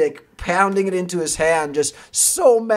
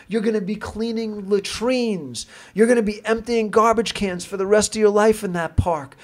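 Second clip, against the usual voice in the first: raised, higher-pitched mock tirade; retold screaming colonel; 6 semitones higher than usual. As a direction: rant like a furious colonel chewing out a cop. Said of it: "he's screaming at him".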